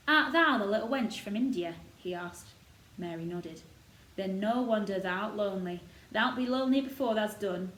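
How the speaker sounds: lightly voiced proud old gardener; a touch of Yorkshire, warming to the robin. Gardener boasting of the robin to Mary, lightly voiced old Yorkshireman.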